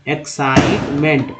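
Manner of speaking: एक्साइटमेंट slow, with साइ held long; syllable by syllable. Shown as a demonstration. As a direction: take एक्साइटमेंट slowly in separate parts. Slow repeat of the word.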